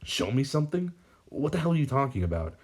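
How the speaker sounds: a touch of fury toward the villain; furious. A narrator's reading. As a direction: snap it back angrily but understated. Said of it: "Barry asks furiously".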